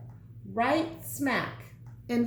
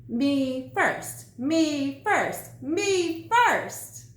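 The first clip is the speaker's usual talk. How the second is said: mocking imitation; 3 semitones higher, 3 dB louder, much slower than usual. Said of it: "I sure could hear you coming".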